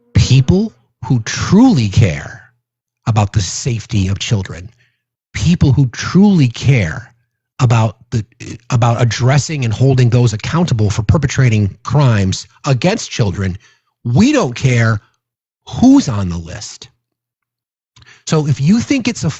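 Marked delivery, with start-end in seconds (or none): 0.1-16.9 slow, deliberate, word-by-word, spelled-out delivery. Addressing the MAGA listeners in the back, speaking slowly. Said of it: "I'll speak slowly".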